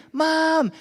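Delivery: high-pitched cheerleading mom voice; encouraging mom. Retold or imitated. Wife overruling hesitant dad to urge son on, encouraging. Wife urges child on in story.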